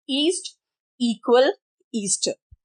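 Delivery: ईस्ट, इक्वल, ईस्टर opening on a long 'ee'; long E sound. Shown as a demonstration. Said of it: "ई का एक sound". (ईस्ट, इक्वल, ईस्टर में लंबी ई)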